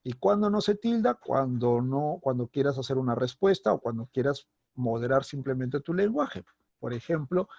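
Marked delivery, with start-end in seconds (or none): none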